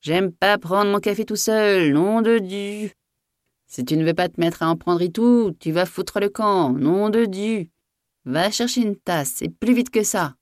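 high-pitched furious scolding; angry outburst. A narrator's reading. Master refusing to drink coffee alone, angry outburst. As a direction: burst out high, stretching the oaths. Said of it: "il éclata de nouveau".

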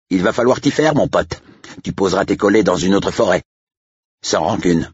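high-pitched, cocky taunt; mocking. A narrator's reading. Agent gloats to Blake about the signed sale, mocking. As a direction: rub it in with mock friendliness.

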